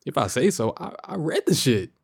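high-voiced objection to being doubted; indignant protest. Real, not acted.

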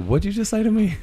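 high, disbelieving squeak; incredulous. Retold or imitated. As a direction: ask it like you can't believe your ears. Incredulous reply to Joe.

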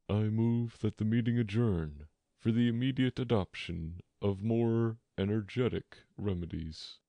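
lightly voiced solemn pompous bird; solemn Dodo. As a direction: make a grave formal motion. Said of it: "said the Dodo solemnly".

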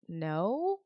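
puzzled no, rising like a question; baffled, questioning answer; confused refusal. Retold or imitated. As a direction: let a retold "no" lift in confusion. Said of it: "I was more so confused".

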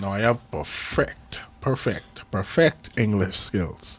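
perfect said in a slightly odd way; perfect, slurred and pronounced differently. Real, not acted. Podcast host boasting of his English, saying perfect oddly. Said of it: "Why it sound like you trying to say perfect differently?".

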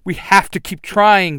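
loud straining encouragement; struggling against restraints. Acted. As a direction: push through while held down. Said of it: "the Yellow Ranger yells".

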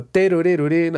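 quick "te-ru-re-ru-rín" guitar noodle; imitated guitar riff. Producer showing host a band's guitar figure, imitated riff. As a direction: mimic a guitar figure with nonsense syllables. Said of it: "por ejemplo, si hicieron".

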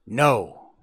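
loud, hard refusals; restrained howl, punched out. A narrator's reading. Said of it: "the dog howled".

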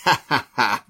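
imitated ha-ha-ha; mock laughter. Imitating the couple laughing at their victim, mock laughter. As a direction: fake the laugh of a gloating couple. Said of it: "they're laughing. They're like".

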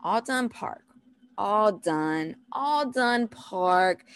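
put-on gentle, drawn-out toddler cue; soothing parent, unhurried; very calm voice. Shown as a demonstration. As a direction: repeat it calmly and patiently. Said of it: "in a very calm voice".

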